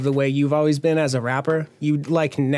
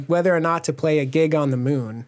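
mock news anchor; 3 semitones higher than usual. Joking news report of breakup.

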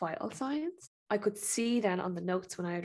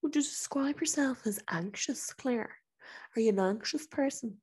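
patronising doctor; 4 semitones higher than usual. Retold or imitated. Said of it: "he turns to me and goes".

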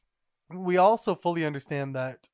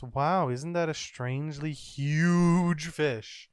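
slow, mildly hammed-up wonder; drawn-out mock amazement; exclaiming; slower than usual. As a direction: exclaim it, stretching the words out. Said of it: "the ship exclaims".

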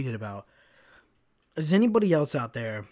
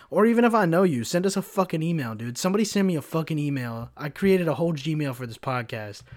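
loud, raised-pitch exasperated plea, easing off; small outburst; 3 semitones higher, 4 dB louder than usual. Real, not acted. Podcaster begging listeners for an email, exasperated outburst. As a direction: burst out at the listeners, then settle a little. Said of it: "Small outburst".

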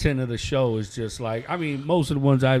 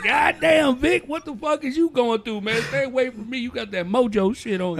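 mock exasperation; 11 semitones higher than usual. His reply to Vic retold.

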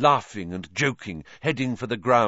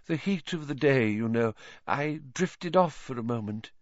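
a hint of a dreamy, eerie seer, coaxing; lightly voiced mystic teacher; 4 semitones higher than usual. Trelawney urging Harry to look closer, lightly voiced seer. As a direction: lean in and lure him to see doom.

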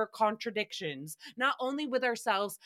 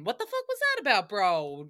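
incredulous. Real, not acted. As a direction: demand it fast, pitched way up. Mock outrage at the sigh.

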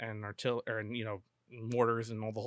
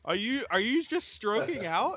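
laughing; 11 semitones higher, 5 dB louder than usual. Real, not acted. Teasing the flubbed host.

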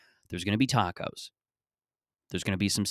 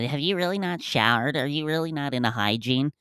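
higher-pitched mocking questioner; incredulous listener; 6 semitones higher than usual. Doubting listeners questioning the host's hygiene, mock incredulous. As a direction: mimic a doubting listener in a raised voice. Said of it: "some people who will listen to this and go".

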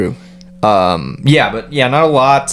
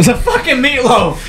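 much higher mock Italian New Yorker; New York accent; 10 semitones higher than usual. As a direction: caricature of a mobster. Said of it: "Angry New York is easy".

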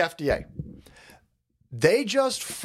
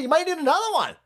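higher, sing-song mock of the official; mock warning; 12 semitones higher, faster than usual. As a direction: tease the warning lightly. Mocking the health official.

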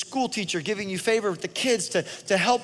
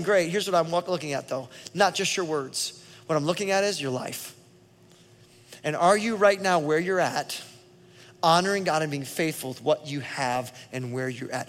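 calm voice of God; 3 semitones lower than usual. Acted. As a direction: answer gently as God himself. Preacher voicing God's answer.

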